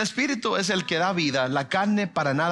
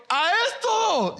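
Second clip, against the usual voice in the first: much higher, slow astonished cry; surprised exclamation; 4 dB louder, slower than usual. Retold or imitated. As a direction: blurt it out in disbelief. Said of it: "yo digo".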